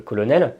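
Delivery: "colonel" read as a French word, co-lo-nel. Shown as a demonstration. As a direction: say "colonel" with all three French syllables. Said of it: "la tentation de lire du français". (« colonel » lu à la française)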